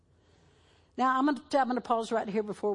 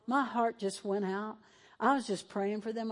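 usual speaking voice

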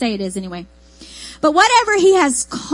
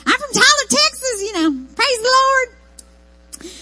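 very high East Texas twang; hammed-up East Texas country squeak, drawn out at the end; country chipmunk accent; 12 semitones higher than usual. Telling newcomers where she's from, exaggerated East Texas accent. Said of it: "I sound like a country chipmunk".

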